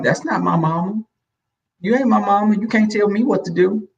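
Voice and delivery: put-on high, defiant kid backtalk; talking smart. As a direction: imitate a mouthy child to a stepmother. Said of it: "talking smart".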